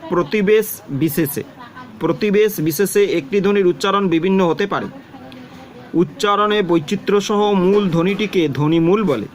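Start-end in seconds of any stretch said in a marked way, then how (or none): 0.1-4.9 প্রতিবেশ stressed, read as if for the students to copy down; a teacher dictating the key phrase; dictating a definition. Shown as a demonstration. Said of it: "তখন তোমাকে এইটা বলতে হবে". (সংজ্ঞা বলে দেওয়া, প্রতিবেশ শব্দে জোর)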